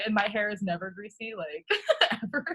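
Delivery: laughing while protesting. Real, not acted. Laughs at rude message.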